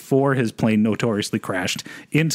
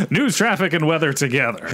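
radio voice. Pretend. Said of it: "use his radio voice".

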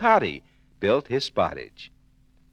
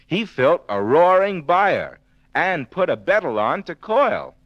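building excitement; 7 semitones higher, 4 dB louder than usual. A narrator's reading. Narrator builds the fire.

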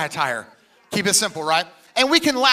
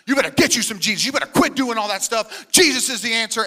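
mock pushy preacher; 2 semitones higher, 3 dB louder than usual. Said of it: "where the church has gone too much".

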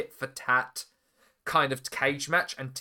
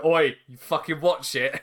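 pissed off Bret. Retold or imitated. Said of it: "Bret a little pissed off".

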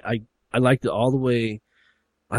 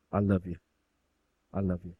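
soft, subdued declaration of love; acted quiet reconciliation; tender son; 3 semitones lower, 5 dB quieter than usual. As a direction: say it gently to your father. Beaten son makes up with father.

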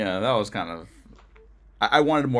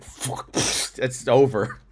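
laughing defeat; much slower than usual. Retold or imitated. Giving in to tears.

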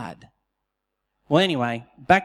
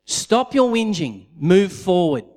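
God's command; 5 dB louder than usual. Retold or imitated. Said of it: "He says".

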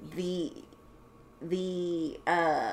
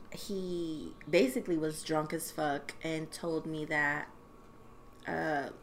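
whisper; 2 semitones lower, 7 dB quieter than usual. Real, not acted. Woman telling friend her ex was drunk, hushed whisper. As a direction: lean in and whisper it.

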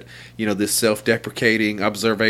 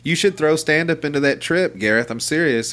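excited; 6 semitones higher than usual. Retold or imitated. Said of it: "I told him, I said".

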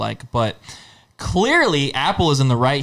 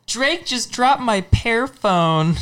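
put-on sitcom kid voice; 10 semitones higher, much slower than usual. Quoting a kid show line.

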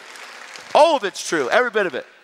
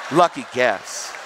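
mad retort; 5 semitones lower, much slower than usual. Retold or imitated. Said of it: "He's that mad".

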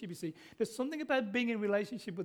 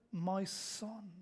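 a soft, loving my son, a touch quieter; gently, lovingly; 4 dB quieter than usual. Retold or imitated. Father pleading with the angry older son, gently and lovingly. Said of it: "it's done gently, lovingly".

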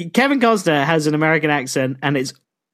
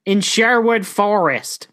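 slow, higher hammed-up announcement; mock woodland voice; 5 semitones higher, slower than usual. Outlaw naming his home in the forest, mock slow voice. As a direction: draw the place name out playfully.

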